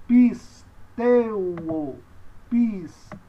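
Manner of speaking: "pisteuo" broken up with a pause after "pis"; slow syllable-by-syllable model; pronunciation demo. Shown as a demonstration. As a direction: punch "pis", then stretch "teuo". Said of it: "Então, você diz".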